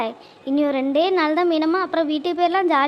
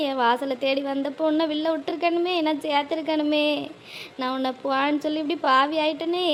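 tender consoling. Acted. Mother consoles her daughter.

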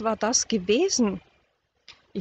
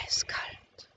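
very soft, chilled whisper; horrified hush; eerie whisper; 10 dB quieter than usual. A narrator's reading. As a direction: let it out almost without voice. Narrator feels an icy touch.

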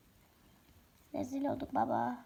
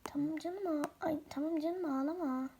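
soothing; 3 semitones higher, 4 dB quieter than usual. Acted. Soothing crying child.

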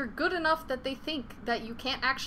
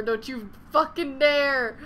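louder, slow, word-by-word threat; louder, slower second warning; 2 semitones higher, 7 dB louder, slower than usual. Real, not acted. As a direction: growl it at the game. Pleading with the game.

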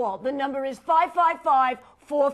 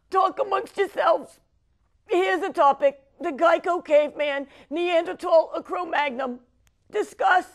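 mock choked up; 4 semitones higher, 3 dB louder than usual. Verklempt host hands over topic.

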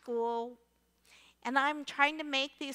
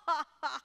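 put-on teen laughing; 3 semitones higher than usual. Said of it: "are laughing hysterically".

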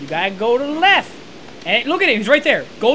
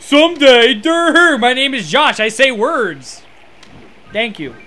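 dopey mock introduction; 4 dB louder than usual. Dopey self-introduction after child taunt.

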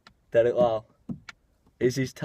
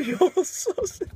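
mock English accent. Mimicking the accent.

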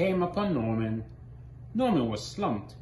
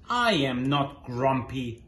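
insisting; 3 dB louder, slower than usual. Acted. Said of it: "Jim insisted".

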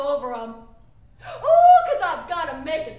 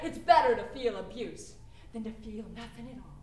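softer repeat of "It's better to feel abuse than to feel nothing at all", lower and hushed; quiet echo; 6 semitones lower, 6 dB quieter than usual. Acted. Performer echoing the girl's words, hushed and low. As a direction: murmur it back to yourself.

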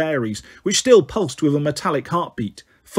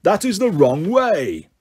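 mocking giant; slower than usual. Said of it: "the giant roared".

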